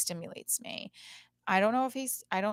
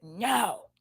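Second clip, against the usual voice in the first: louder mock-indignant "No"; imitated child's denial; 7 dB louder than usual. Mom retells daughter denying she likes him, imitated child's denial. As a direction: lightly voice a kid refusing.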